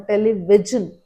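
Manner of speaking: "television" with a hard j, tele-VIJ-un; wrong j sound. Shown as a demonstration. Teacher showing another mistake, "television" with j. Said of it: "my pronunciation can't be correct".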